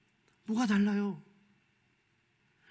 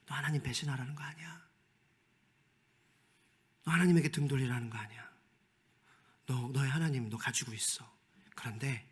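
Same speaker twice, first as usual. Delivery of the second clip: 너 하나님 배신하라는 거 아니야 whispered softly and temptingly; the devil coaxing a believer in a soft whisper; devil's voice; 7 semitones lower, 8 dB quieter than usual. Pretend. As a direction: whisper like a sly tempter in the ear. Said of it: "이 목소리는 마귀의 소리예요".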